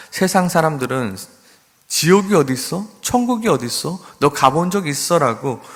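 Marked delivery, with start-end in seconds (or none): 1.9-5.6 higher, mocking challenge; preacher voicing a taunting skeptic's questions; scoffing unbeliever. Preacher voices the world scoffing at believers, mocking. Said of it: "우리들에게 오히려 물어봅니다".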